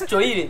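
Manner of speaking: "choire" said as cho-ee-reh; "choire" in three parts, cho-EE-reh; mispronounced choire. Shown as a demonstration. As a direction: read "choire" by its spelling, with a ch. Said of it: "I am going to correct all the lie".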